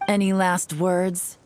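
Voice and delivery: slow, hammed-up threat; mock dramatic villain line. Agent taunting the defeated crook, slow mock-dramatic menace. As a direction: play the movie villain for a beat. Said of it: "Perhaps a bit too dramatic".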